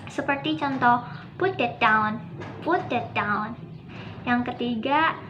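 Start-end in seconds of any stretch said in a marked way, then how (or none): 1.4-3.6 "Put that down" as a firm command. Shown as a demonstration. Classroom example of giving an order, as a command.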